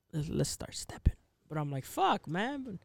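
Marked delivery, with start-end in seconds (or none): 0.1-1.1 hushed inner-voice whisper. Retold or imitated. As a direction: whisper it like a thought. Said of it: "in the back of my mind, like, yo".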